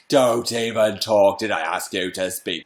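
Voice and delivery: imitating a terrifying teacher; stern French teacher. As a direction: shut the pupil down, icy. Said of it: "And she was like".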